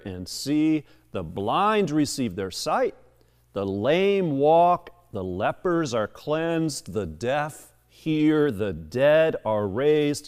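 measured, emphatic Bible reading; deliberate public reading with weighted key words; scripture reading. Acted. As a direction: read the gospel aloud to a congregation. Reads scripture aloud to congregation.

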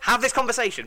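loud, high, exasperated go-ahead; mock exasperated. Real, not acted. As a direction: sarcastically wave them on. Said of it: "by all means".

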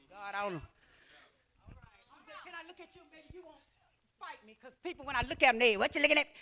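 very soft, hushed aside; near whisper. Real, not acted. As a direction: say it barely audible. Very quiet aside.

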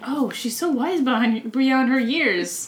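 mock British museum director, drawn out; slow, affected British delivery; British accent. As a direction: stretch it out in a put-on British accent. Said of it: "Can we talk about that British accent?".

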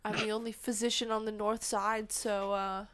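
talking around a pen; words squeezed past a pen in the mouth; pen in teeth. Real, not acted. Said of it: "I could put this pen in my mouth".

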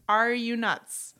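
slow, drawn-out disbelief; incredulous. Retold or imitated. Wife reacting to being offered leftover ginger beer, incredulous. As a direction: stretch it out in mild mock outrage. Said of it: "I was like".

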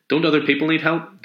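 put-on high, eager child's questions; little girl. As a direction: pester him like a curious kid.

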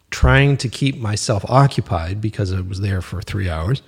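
talking through a burp; words with a burp rising. Real, not acted. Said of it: "Excuse me, it's a burp".

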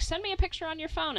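retorting to mom. Retold or imitated. Retold reply to mom.

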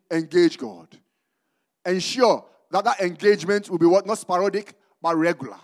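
emphatic preaching in short, weighted phrases. Real, not acted. Preacher urging the church to engage God, emphatic preaching. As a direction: drive each point home with measured pauses.

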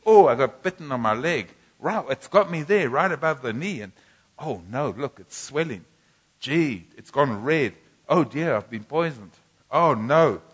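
loud, fretful complaining over a bite; mock panic. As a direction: ham up a panicky patient. Israelites panicking over snakebite.

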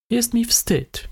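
ashamed suspect. A narrator's reading. Suspect admits shame.

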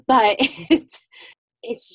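laughing through tears; light, high laugh; teary laugh. Real, not acted. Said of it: "laughs through tears".

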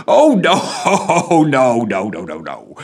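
high jolly voice, chuckling through the nos; laughing constable. A narrator's reading. Jolly constable laughing off the PM's guess. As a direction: laugh off the mistake. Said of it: "laughed the constable".

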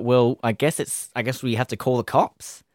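brisker retake of the line. Shown as a demonstration. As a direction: pick up the pace, keep it moving. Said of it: "And then I was like".

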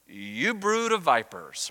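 slow, drawn-out mock-gentle address. John the Baptist addressing the arriving crowds, mock gentle. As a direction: greet them with ironic gentleness, very slowly. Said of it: "he very gently says".

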